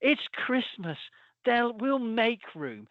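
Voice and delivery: high, drawn-out mock Scottish voice; Scottish accent. Supermarket employee announcing Christmas generosity in an advert, mock Scottish accent. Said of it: "oh, Scottish accent".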